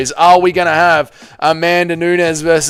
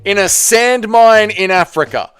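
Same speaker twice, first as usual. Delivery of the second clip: hyped fight sell; 4 semitones higher than usual. Acted. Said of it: "This is how you sell the fight".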